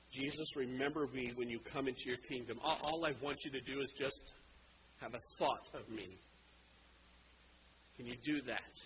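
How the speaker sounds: soft, low, subdued request; humble plea. Acted. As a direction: ask gently as a dying man begging a small favour. Dying criminal humbly pleads to Jesus.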